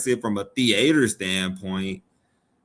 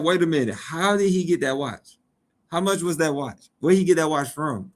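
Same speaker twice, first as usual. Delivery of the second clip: higher incredulous questions; suspicious questioning; 5 semitones higher than usual. Retold or imitated. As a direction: demand answers in mock disbelief. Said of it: "I'm like".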